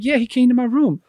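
high-pitched acted explanation; retold childlike insistence; insistent child. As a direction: explain eagerly, as a little kid.

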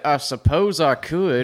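slow lazy drawl; lightly voiced Billy Bob; Billy Bob impression. Slow drawled Billy Bob reply to his partner. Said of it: "I can't say anything else as him".

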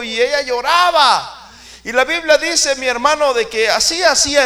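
loud, high preacher's cry pressing each phrase; preaching at full force. Acted. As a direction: preach it hard to the congregation. Fiery sermon opening on Ana.

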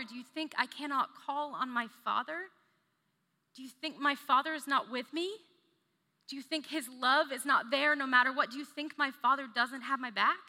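steady, confident trust; calm, sure reassurance. Shown as a demonstration. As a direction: lean on the Father's love, secure. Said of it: "It's his trust in the Father".

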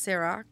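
Ciroc with a soft s, si-ROCK; quiet "Ciroc" starting with an s sound; pronunciation correction. Shown as a demonstration.

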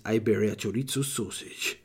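product name in put-on Spanish; mock Spanish accent. Reading out the best-selling sausage, mock Spanish accent. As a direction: lean into a Spanish accent on the brand. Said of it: "I'm the master of Spanish".

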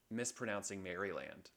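"Maryland" as Mary-land, full final "land"; mispronunciation. Shown as a demonstration. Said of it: "mispronouncing Maryland".

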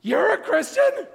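put-on old classmate stunned at the reunion; shocked disbelief. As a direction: let the disbelief stretch out. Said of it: "she was like this".

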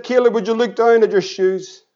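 low, restrained retold question; dad keeping composure. Dad calmly corners his son.

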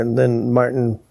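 ordinary talk, nothing marked

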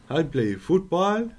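slow, high African accent. Shown as a demonstration. Host struggles on as a footballer, African accent. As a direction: attempt an African accent, drawn out. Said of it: "African accent".

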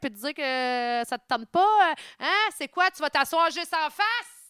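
mock-angry, rising on "hein". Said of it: "il levait le ton".

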